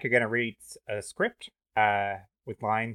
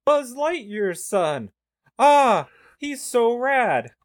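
high loud slow surfer-dude voice; Pauly Shore; 14 semitones higher, 9 dB louder, much slower than usual. Pretend. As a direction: stretch it out like a stoned surfer. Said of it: "I am playing the roles of ... Pauly Shore".

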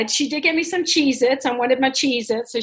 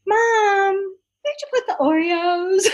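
higher, a lightly voiced daughter; daughter asking; 7 semitones higher, slower than usual. Daughter coming into mom's room, lightly voiced wheedling ask. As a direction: ask sweetly, like a sneaky kid. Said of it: "she starts talking".

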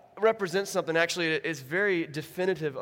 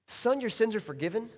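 puzzled repeat; 4 semitones higher than usual. Shown as a demonstration. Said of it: "That's what he says".

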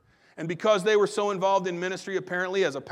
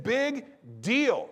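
higher-pitched "big deal", falling away on DEAL; mildly mocking, pitched up; dismissive quote; 4 semitones higher than usual. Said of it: "That's some translation".

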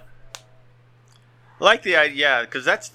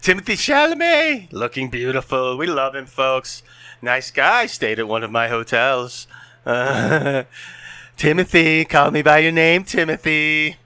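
Donald Trump; 2 semitones higher than usual. Pretend. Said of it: "descending from Donald Trump into".

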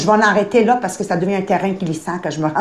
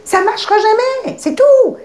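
firm; 11 semitones higher, 4 dB louder than usual. Acted. Firm ultimatum to client.

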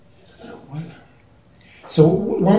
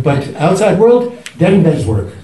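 put-on Indian accent; 3 semitones higher than usual. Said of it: "in his Indian accent".

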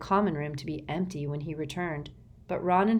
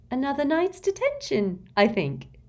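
soft menace; 10 semitones higher, 4 dB louder than usual. A narrator's reading. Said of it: "she said softly".

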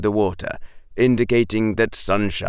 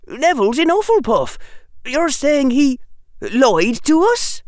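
a hint of boyish disbelief; lightly voiced shock; 3 dB louder than usual. A narrator's reading. Ernie asking if Neville lied, mild shock. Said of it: "with shock on his face".

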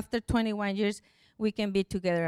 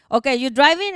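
higher, louder retold question; happy caller; 5 semitones higher, 8 dB louder than usual. Helper on phone before giving news, imitated happy excitement. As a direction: imitate her eager check before the news. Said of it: "I feel the happiness in her voice".

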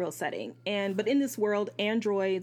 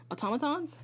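doubting question; 6 semitones higher than usual. Real, not acted. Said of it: "the automatons".

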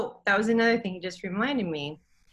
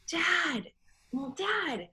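tearful plea; 9 semitones higher, much slower than usual. Retold or imitated. Crying to her father in dream.

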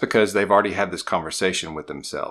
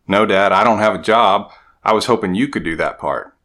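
son's voice, louder and pitched up; kid's excuse; 2 semitones higher, 7 dB louder than usual. Retold or imitated. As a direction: blurt it like a kid who wants out of the work. Son answering dad.

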